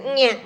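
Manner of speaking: whiny sentence-ending noise; cat-like "nyeh". Shown as a demonstration. Sister-in-law ending her introduction, cat-like whine. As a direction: tack on a little cat whine. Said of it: "like a cat in heat".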